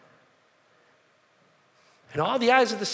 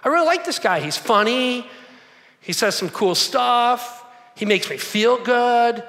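gushing fan; 4 dB louder than usual. Retold or imitated. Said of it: "They're like".

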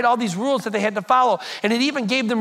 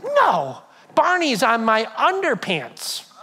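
put-on lit-up little girl; slower than usual. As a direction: imitate a child lighting up in protest. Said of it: "lit up and she goes".

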